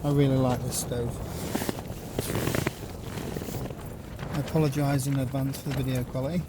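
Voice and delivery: talking outdoors in strong wind with mic noise. Real, not acted. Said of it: "We're gonna have to excuse the wind noise".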